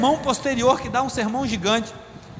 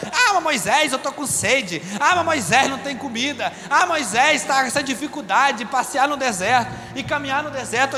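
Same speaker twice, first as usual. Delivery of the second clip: whiny complaining; 3 semitones higher than usual. Retold or imitated. Crowd grumbling to Moisés in the desert, whiny mock complaint. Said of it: "reclamando, murmurando".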